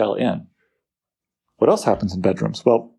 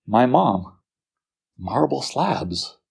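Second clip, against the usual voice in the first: mock casual voice; slower than usual. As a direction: toss it off lightly. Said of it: "Why isn't he saying".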